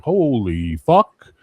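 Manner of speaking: slow, drawn-out awe; retold amazement. Bouncer hearing how his friend knocked someone out, retold amazement. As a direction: stretch it out in stunned disbelief.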